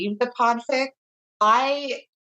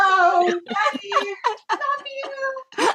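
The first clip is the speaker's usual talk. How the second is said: mock-tender sympathy; 13 semitones higher than usual. Mock pity for her unaware husband.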